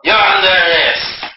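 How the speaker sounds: high, loud Gestapo command; acted arrest shout. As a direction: call out an arrest like a film villain. Acting out the Gestapo's arrival.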